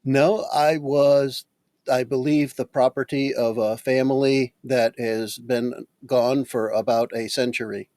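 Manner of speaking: lightly voiced, deliberate construct; measured, literal machine-like character; matter-of-fact construct. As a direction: explain your build piece by piece, softening at the end. Player voices the construct Rolex.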